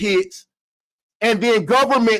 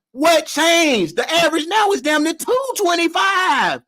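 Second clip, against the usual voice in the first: heated rant; 5 semitones higher than usual. Acted. Mock trial argument, heated rant.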